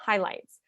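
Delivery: Highlights said alone, firm and falling; stressed highlights. Shown as a demonstration. Telling the audience what to stress, a firm Highlights. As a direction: land Highlights like a rule. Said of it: "I stress that word highlights".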